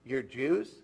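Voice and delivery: a loud, lightly done Texan drawl on the question; half-hearted Texan accent, admitting it falls short; attempted Texan accent. Retelling the Texan foreman's surprised question in a mock Texan accent. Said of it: "I can't get the accent right".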